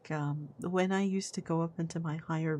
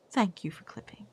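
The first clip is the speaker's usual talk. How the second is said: whisper. Pretend. Sarcastic thanks after mock outrage.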